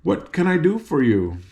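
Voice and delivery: lightly voiced friendly gatekeeper; a hint of a genial guardian; pleasant. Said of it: "Speaking pleasantly to the girls".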